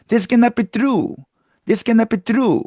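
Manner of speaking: Hispanic-accented English with hard, tense t and k. Shown as a demonstration. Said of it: "된소리 발음이 나옵니다". (된소리가 나는 히스패닉 억양)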